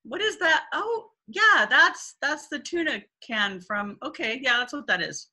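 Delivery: high, loud, clueless sniffing around; mock puzzled husband chatting about the smell; mock oblivious husband. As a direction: play the husband who notices and does nothing. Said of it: "running commentary".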